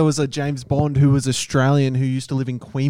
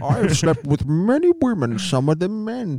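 Sean Connery voice; 4 semitones higher than usual. Retold or imitated. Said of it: "I'm Sean Connery".

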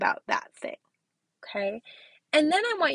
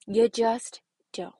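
whispered; 3 dB louder, slower than usual. Real, not acted. Repeats catchphrase, whispered.

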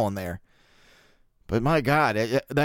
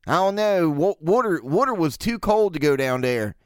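put-on Baltimore accent; 3 semitones higher than usual. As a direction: poke fun at a thick-vowelled Baltimore accent. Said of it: "is the Baltimore accent?".

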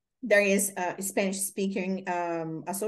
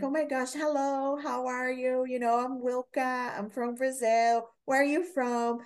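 lit-up greeting; 4 semitones higher than usual. Retold or imitated. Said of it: "I would light up".

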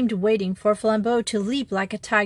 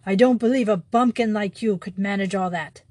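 angry cry. Acted. Furious thief turns on the priest, crying out in disbelief. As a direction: fling the disbelief at him.

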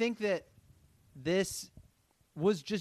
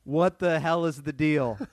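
playing the angry boss; loud pretend demand for answers; hammed-up exasperation; mock outrage; 4 dB louder than usual.

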